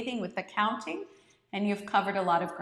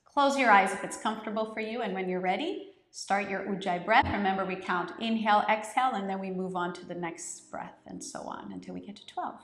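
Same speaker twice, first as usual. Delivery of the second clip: guided meditation. Acted. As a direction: lead the class gently into the breath. Leads the guided breathing.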